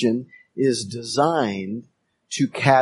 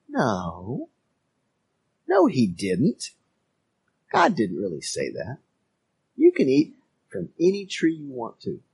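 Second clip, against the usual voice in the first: understated defiant serpent; a touch of scoffing denial; mild defiance; 4 dB quieter than usual. Acted. Preacher voicing the serpent to listeners, mildly defiant. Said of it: "a tone of defiance".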